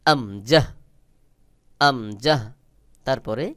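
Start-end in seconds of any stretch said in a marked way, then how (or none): 0.0-2.4 আমজাহ said slowly and clearly with open mouth; careful model of আমজাহ, rising at the end. Shown as a demonstration. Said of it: "স্বাভাবিকভাবে মুখ খুলে".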